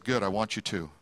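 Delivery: teasing, laughing through it; joking laugh. Real, not acted. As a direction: laugh as you tease your daughter. Joking reply to daughter.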